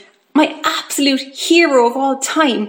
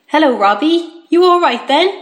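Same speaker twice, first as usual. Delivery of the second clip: raised, lilting greeting from Dad; suppressed excitement; 5 semitones higher, 4 dB louder than usual. A narrator's reading. Dad greeting son in hospital, excited but trying to hide it. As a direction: keep the excitement just under the lid. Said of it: "Dad sounding excited, but trying to hide it".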